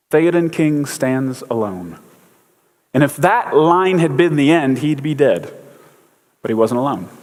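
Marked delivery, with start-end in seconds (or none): 0.1-2.0 Gandalf's solemn pronouncement. Retold or imitated. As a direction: lightly imitate a wizard's measured declaration. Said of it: "and Gandalf says".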